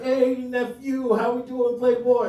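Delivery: high, loud, drawn-out greeting; boisterous uncle. Acted. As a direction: play an uncle hollering hello to his nephew.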